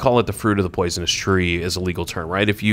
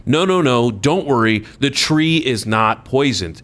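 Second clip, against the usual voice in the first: mock Comey; 2 semitones higher than usual. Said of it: "he's saying".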